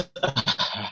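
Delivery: short nervous laugh. Real, not acted. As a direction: laugh off the jitters. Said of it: "I'm a bit nervous".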